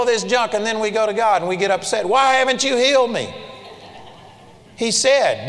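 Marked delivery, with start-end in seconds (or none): 2.0-3.3 higher, louder mock whine of complaint; a petulant believer demanding of God; whiny complaint to God. Preacher mimics believer's petulant complaint to God.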